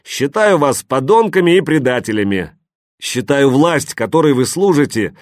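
loud, high, contemptuous speech; defiant shout. A narrator's reading. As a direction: hurl the insults out the window. Sasha shouts into megaphone.

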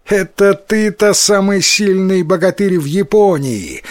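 выше и громче, с насмешкой; высмеять его хвастовство; насмешливо. A narrator's reading. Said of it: "засмеялся Тикаротаро". (насмешливо, со смехом)

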